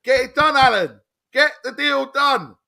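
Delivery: high, loud, exasperated demands; exasperated urging. Real, not acted.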